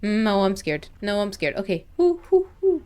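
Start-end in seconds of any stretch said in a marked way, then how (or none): 2.0-2.8 nervous whoops. Real, not acted. Psyching herself up.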